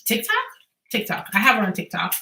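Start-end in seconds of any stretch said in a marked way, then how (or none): 0.0-0.4 unsure question. Real, not acted. Unsure what app, asks.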